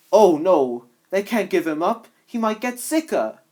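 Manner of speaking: upset. Acted. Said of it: "Snaptrap now was upset".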